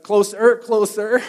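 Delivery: loud, high shout across the beach; calling out. Retold or imitated. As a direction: call him closer from the water. Calling friend from water.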